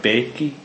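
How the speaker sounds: "Bakey" with an extra final ee sound; wrong bakey. Shown as a demonstration. Speaker showing the mispronunciation of bake as "Bakey". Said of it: "It's like".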